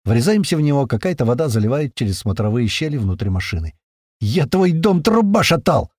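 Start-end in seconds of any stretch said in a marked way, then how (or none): 4.2-5.9 happy mocking yell; joyful yell. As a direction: crow it out with delight. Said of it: "радостно орёт сзади Котлета".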